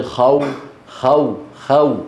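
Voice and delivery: خو as a gliding "khaw", a then w; leen letter waw. Shown as a demonstration. Teacher isolates waw after fatha for students, leen glide. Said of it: "هذا اسمه حرف لين".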